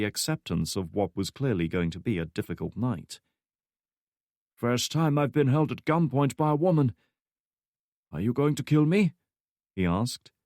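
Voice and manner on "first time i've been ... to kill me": put-on higher, calm, unbothered old man; flat calm old man. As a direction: ask it with weary calm. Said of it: "his voice flat and completely calm".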